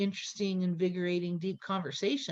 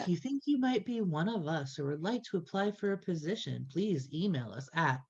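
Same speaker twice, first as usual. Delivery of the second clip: announcer voice; 5 dB quieter than usual. Acted. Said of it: "my announcer voice".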